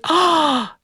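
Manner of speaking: breathless, dreamy rising sigh over a crush; thrilled child. Retold or imitated. Girl thrilled that her crush noticed her, swooning. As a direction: swoon as a ten-year-old would. Girl's thrilled inner thought.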